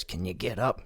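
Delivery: whispered retelling. Retold or imitated.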